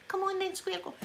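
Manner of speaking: Glasgow street accent. Shown as a demonstration. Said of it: "You've got to do that with your neck".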